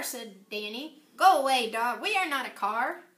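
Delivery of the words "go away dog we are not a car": put-on scolding boy. Danny shooing dog.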